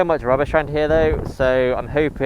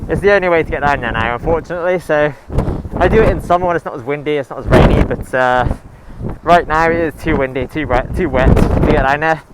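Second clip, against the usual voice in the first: raised voice against loud wind; shouting over wind; 5 dB louder than usual. Real, not acted. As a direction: push the voice over a gale outdoors. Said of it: "I hope you can hear me over the wind".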